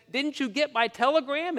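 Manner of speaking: high-pitched, incredulous question; incredulous husband. Acted. Husband asking his wife about his telegram, incredulous. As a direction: voice pushed high in exasperation.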